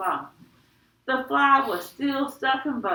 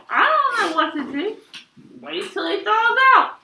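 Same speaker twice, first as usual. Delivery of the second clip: urgent suggestion; 11 semitones higher, 8 dB louder than usual. Acted. Boy urgently suggests fixes.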